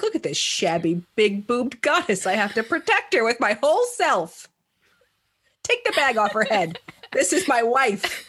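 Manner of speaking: mock smitten don. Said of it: "he's like".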